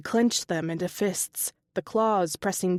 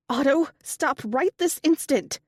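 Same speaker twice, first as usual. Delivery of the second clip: higher, louder stern command; commanding shout; 7 semitones higher, 3 dB louder than usual. A narrator's reading. Mistress over the phone, stern higher command. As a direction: stop him dead with an order.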